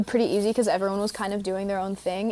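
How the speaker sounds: usual speaking voice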